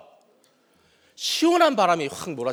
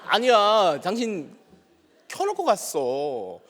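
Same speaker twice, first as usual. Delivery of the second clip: angry insisting; 4 semitones higher than usual. Retold or imitated. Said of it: "갑자기 내가 화가 더 많이 나서".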